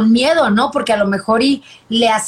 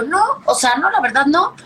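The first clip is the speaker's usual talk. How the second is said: retold refusal; 5 semitones higher than usual. Acts out refusing her partner.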